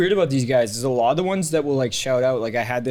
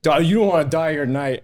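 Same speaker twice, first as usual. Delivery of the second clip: a hint of a belligerent drunk, higher; mock the old man's threat; imitating drunk old heckler; 4 semitones higher, 4 dB louder than usual. Comic quoting the drunk heckler from the video, mock-menacing. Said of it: "him being like".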